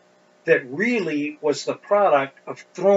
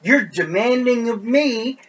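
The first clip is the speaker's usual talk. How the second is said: louder, higher exasperated protest, drawn out toward the end; indignant rebuke; 9 semitones higher, 9 dB louder than usual. Acted. Preacher paraphrasing Jacob's angry answer to Rachel, indignant and loud. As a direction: push back hard in a raised, indignant voice.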